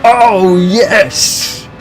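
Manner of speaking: high, loud shout of joy; ecstatic cheer. Real, not acted. Streamer cheering his third-place race finish, ecstatic high shout. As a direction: cheer it out like you just won.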